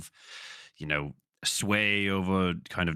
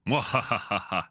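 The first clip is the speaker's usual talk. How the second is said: villain laugh; 2 semitones higher than usual. Acted. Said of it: "that was Kane again".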